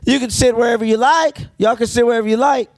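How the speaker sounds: put-on polite Southern accent, lightly done; quiet Southern accent. Waitress seating them, in a light Southern accent. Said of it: "quiet Southern accent".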